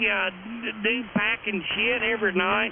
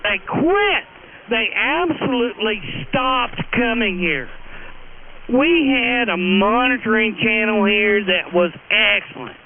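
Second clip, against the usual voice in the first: loud, heated tirade at the radio; really losing his temper, shouting it out; angry ranting; 5 dB louder than usual. Real, not acted. Ham operator yelling at a rival on air, furious. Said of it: "You're getting all excited".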